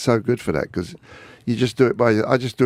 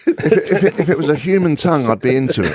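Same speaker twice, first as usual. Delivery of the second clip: higher, laughing joke; 6 semitones higher, 4 dB louder, faster than usual. Real, not acted. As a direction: laugh your way through it. Guest cracks crude joke laughing.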